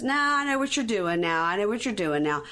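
a light take on a savvy guy; brother's reply. Retold or imitated. Recapper voices Quaylon turning down his sister. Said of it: "And he says".

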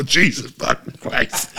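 slowed, stretched-out curse in disbelief; shocked curse. Retold or imitated. Dad shocked at a drawing, muttering in disbelief. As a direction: gasp it out, stunned. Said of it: "and I go".

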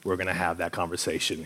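very soft, low aside to himself; inward dread. Retold or imitated. Roommate realizing a tense conversation is coming, hushed dread. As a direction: sink into a hushed, dreading mumble. Acts out his dread at hearing name.

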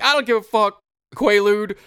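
hammed-up defiant crook rant; retold rant. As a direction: rail at him like a crook who's lost it. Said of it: "He's like".

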